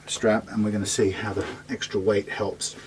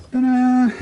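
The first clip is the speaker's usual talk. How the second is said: a big, much higher, louder triumphant ta-da; ta-da reveal; 7 dB louder than usual. Real, not acted. Showing the guitar to viewers, a high triumphant ta-da. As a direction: unveil it with a flourish.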